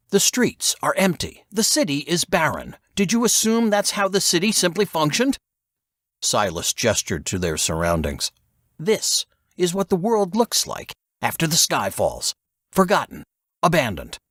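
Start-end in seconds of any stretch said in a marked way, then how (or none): 0.1-5.4 much higher, mocking and contemptuous; voice rising. A narrator's reading. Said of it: "his voice rising". 8.8-14.2 much higher, mocking and contemptuous; voice rising. A narrator's reading. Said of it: "his voice rising".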